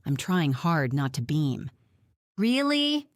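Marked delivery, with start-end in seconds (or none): 2.4-3.1 high, rising astonished question; astonished, pitched well up; gasped surprise. A narrator's reading. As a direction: gasp it out in delighted disbelief. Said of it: "Doris gasps".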